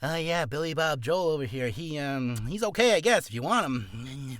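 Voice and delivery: unenthusiastic mock agent recommendation; half-assed pitch. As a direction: mimic an agent half-heartedly selling a client. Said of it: "do a half-assed job and be like".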